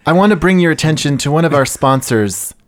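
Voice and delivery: mock sponsor read by a podcast host; true crime podcaster. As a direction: deliver a put-on, earnest podcast ad plug. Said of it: "they all sound like this".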